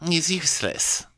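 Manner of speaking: high, quick put-on grumble; Faye impression voice. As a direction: complain fast and high as Faye. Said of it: "She's like".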